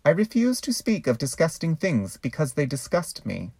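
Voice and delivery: a lightly voiced prim refusal; mock pious scream. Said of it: "I will scream".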